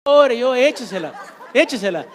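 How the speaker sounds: loud, high, chanting shout with laughter; laughing mock shout. Preacher mockingly urging the congregation to cry it out, loud laughing shout. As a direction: egg them on, yelling and laughing.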